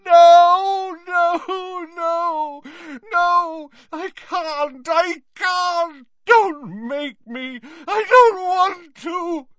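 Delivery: high, loud, sobbing screams; screaming. Acted. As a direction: scream and wail in terror. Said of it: "Dumbledore screamed".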